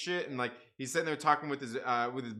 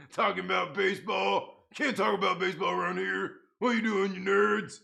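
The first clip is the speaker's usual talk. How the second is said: mock scolding; 5 semitones higher, 4 dB louder than usual. Mock-scolding chat about baseball.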